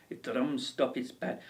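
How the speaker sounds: hesitant attempt at an unplaceable accent; mock tour guide with a wobbly Welsh-Indian accent; muddled foreign accent. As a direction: try out a badly faked foreign accent. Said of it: "is that Welsh? Is that Indian?".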